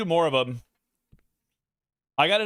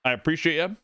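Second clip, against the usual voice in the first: chewing steak. Real, not acted. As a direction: mouth full while talking. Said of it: "I'm talking with my mouth full".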